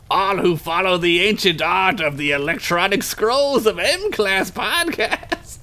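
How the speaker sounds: lightly voiced old wizard, archaic; a hint of a grand storybook wizard. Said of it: "wizard voice optional".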